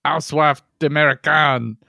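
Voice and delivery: hammed-up French host; French accent. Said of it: "French person with a French accent".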